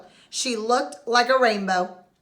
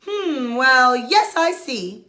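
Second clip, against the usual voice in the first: mumbled; 4 semitones higher, 5 dB louder, much slower than usual. Acted. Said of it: "Doctor Bumble mumbled".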